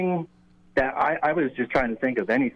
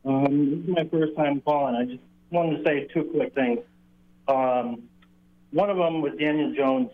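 muffled speakerphone. Real, not acted. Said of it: "sounded kind of, like, muffled or hollow".

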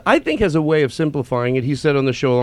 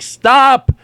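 mock protest; 8 semitones higher, 5 dB louder than usual. Quoting an objection.

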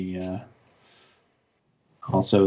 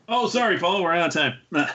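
playful mock apology, raised pitch; gentle teasing; 5 semitones higher than usual. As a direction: tease him with a fake sign-off. Teasing cutting off Paul.

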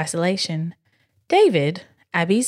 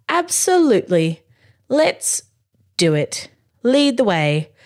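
higher, keen exclaim, a bit forced; exclaimed absolutely; 4 semitones higher than usual. Acted. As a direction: sound more confident than you feel. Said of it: "exclaimed Dad".

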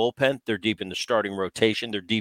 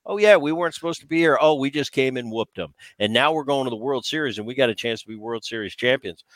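smirking. Retold or imitated. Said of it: "just smirking".

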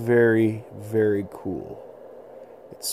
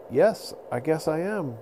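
calm the beast down, pitched up; pleading little boy; 6 semitones higher than usual. Acted. Little boy pleading with the mammoth not to charge.

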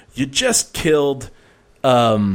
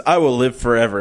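dramatic villain line; faster than usual. Retold or imitated. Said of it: "how much drama there is".

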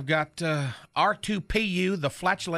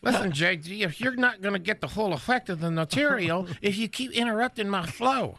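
Knucklehead's voice. Acted. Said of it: "Why are you still doing Knucklehead's voice?".

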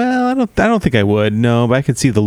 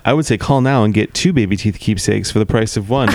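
infomercial pitch. Pretend. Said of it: "I'm an infomercial for baby teeth keepsakes".

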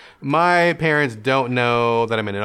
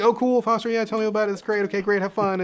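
breezy sister; 8 semitones higher than usual. Retold or imitated. Sister casually approving.

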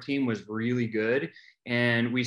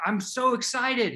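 high slow beaming excitement; high gushing delight; giddy; 10 semitones higher, slower than usual. Retold or imitated. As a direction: stretch out the joy. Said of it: "I'm like".

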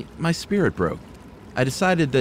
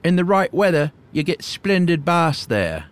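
put-on creaky old hermit; 7 semitones higher, 3 dB louder than usual. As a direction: play the awkward old hermit. Voices the hermit.

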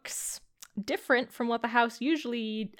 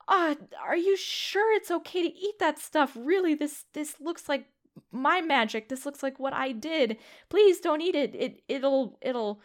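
worried plea; 4 semitones higher than usual. Acted. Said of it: "Yoali's eyes basically bug out".

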